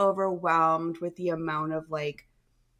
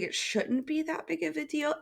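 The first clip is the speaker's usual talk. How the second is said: whispering; 7 semitones higher, 6 dB quieter than usual. Real, not acted. Unvoiced confessional aside.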